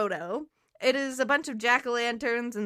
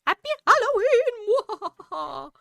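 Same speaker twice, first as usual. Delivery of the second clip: high, slow, laughing greeting; excited; 10 semitones higher, 5 dB louder, slower than usual. Real, not acted. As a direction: sing out the greeting gleefully.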